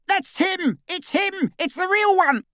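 high, far-off excited cry; Death Eater's shout. A narrator's reading. Death Eater recognising the real Harry, high cry. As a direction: cry out in triumph at the discovery. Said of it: "The hooded Death Eater's shout".

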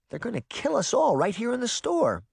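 put-on high-pitched worried girl; alarmed girl. A narrator's reading. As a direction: fret in a high, anxious voice. Cringing girl fears the angry crowd.

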